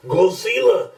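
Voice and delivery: mock Asian accent, high and drawn out on Godzilla; hammed-up Asian accent, stretch Godzilla high; shitty Asian accent. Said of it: "with that Asian accent".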